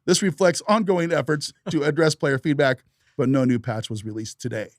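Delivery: put-on old-time radio news anchor read; 1950s newscaster. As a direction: read it like a vintage newsreel announcer. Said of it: "Why are you reading it like a nineteen fifties newscaster".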